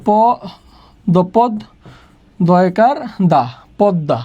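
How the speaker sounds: পদ্মা built slowly from pod and da; sounded-out pronunciation. Shown as a demonstration. Teacher answers how it is pronounced, পদ্মা piece by piece. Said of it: "তাহলে পদ্মার উচ্চারণ কি হবে?".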